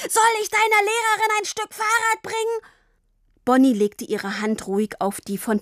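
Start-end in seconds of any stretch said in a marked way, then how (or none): 0.1-2.7 very high, sarcastic bellow; roaring. A narrator's reading. Papa keeps roaring at Tini about the teacher, sarcastic. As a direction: roar the mocking question at her. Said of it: "brüllte er weiter".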